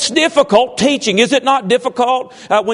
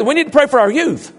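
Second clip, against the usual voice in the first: higher-pitched, lightly mimicked regional accent; Brian Ford; 4 semitones higher than usual. Pastor showing how a member says it, lightly mimicked accent. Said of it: "That's the way he says".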